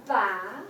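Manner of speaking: "Ba" starting mid-low and sliding up; rising second tone. Shown as a demonstration. Teacher models second tone for students, rising. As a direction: lift "Ba" from middle pitch upward. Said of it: "you need to go move up a little bit".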